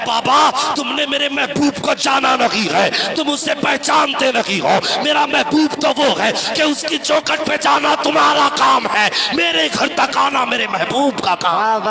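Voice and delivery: put-on high, loud preaching shout as the writhing child; child's desperate shout to his father, preached at full force; anguished cry. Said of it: "بچہ تڑپ جاتا ہے".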